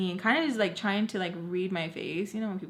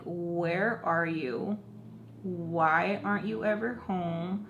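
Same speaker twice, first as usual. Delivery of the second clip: slow, drawn-out accusing demand; aggressive; slower than usual. Retold or imitated. Texting mom very aggressively, slow angry questioning. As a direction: stretch each question, mildly aggressive. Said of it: "texting her very aggressively".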